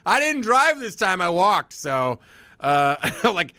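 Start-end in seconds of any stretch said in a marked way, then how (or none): 0.1-1.7 awkward nervous reply. Retold or imitated.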